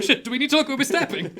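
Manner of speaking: high, loud, anxious question; enthralled underling. Acted. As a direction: ask it wide-eyed, pitched well up. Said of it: "quite enthralled and were like".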